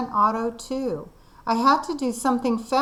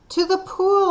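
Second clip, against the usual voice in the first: yelled; 8 semitones higher than usual. Acted. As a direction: shout it back to them. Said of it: "I yelled".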